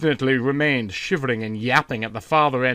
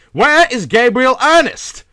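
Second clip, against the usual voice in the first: slow, high, loud panicked cry; almost scream it in dread; much higher, louder, drawn-out frantic call; near scream; 12 semitones higher, 8 dB louder than usual. Acted. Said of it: "he almost screamed".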